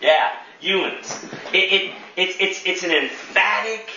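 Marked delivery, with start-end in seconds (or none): 0.6-1.2 "Youans" softly, a touch of Pennsylvania. Shown as a demonstration. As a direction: third try at the Pennsylvania word, softer and lightly accented. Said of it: "what James is gonna experience out in Pennsylvania".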